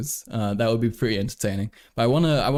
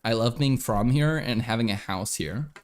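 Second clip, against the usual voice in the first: put-on Minnesota accent. Streamer playing along as a Minnesotan, put-on Minnesota accent. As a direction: pretend to be a Minnesota local by accent. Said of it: "Max is clearly from Minnesota".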